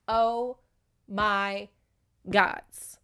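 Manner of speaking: one word at a time, with long pauses; spaced-out, aghast oh my gods; mock stunned disbelief. Reader watching the misunderstanding unfold, mock disbelief.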